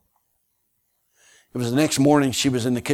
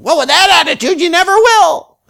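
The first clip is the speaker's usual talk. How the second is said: very high put-on woman's voice, louder too; mimicking her tone; 14 dB louder than usual. Young preacher mocks the woman from the pulpit in her own voice. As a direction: throw her own whiny tone right back at her. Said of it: "mimicked her exact tone of voice".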